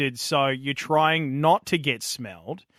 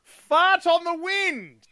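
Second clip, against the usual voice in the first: high sing-song; 4 dB louder, much slower than usual. Shown as a demonstration. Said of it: "I just love saying that out loud".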